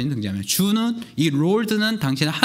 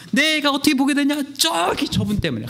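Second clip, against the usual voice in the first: excited boasting; 11 semitones higher than usual. Acted. Healed man boasting to crowd.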